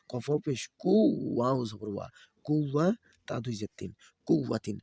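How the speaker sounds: sing-song letter-by-letter chant; Quran-primer teacher's recitation; spelling drill recitation. Shown as a demonstration. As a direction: spell each syllable, then lift the joined word. Spells out Arabic syllables for learners.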